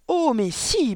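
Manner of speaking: loud, high, drawn-out bellow; big scornful roar. A narrator's reading. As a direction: bellow it like an overbearing headmistress. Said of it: "beugla mademoiselle Le Gourdin".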